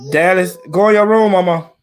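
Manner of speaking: loud firm call to the room. Real, not acted. Parent ordering fighting kids away.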